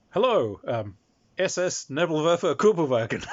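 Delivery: loud hammed-up fake German; mock German. Player shouting fake German words at the Saxon peasants. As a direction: bark out nonsense German words.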